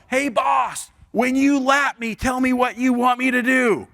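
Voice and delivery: high, drawn-out call to the boss; yell. Acted. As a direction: holler it out to someone speeding past. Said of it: "do is yell".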